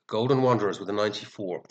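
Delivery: stuffed-up nose from a cold; sniffly, congested voice; blocked nose. Real, not acted. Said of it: "excuse my sniffling, guys. I'm stuffed with this bloody cold".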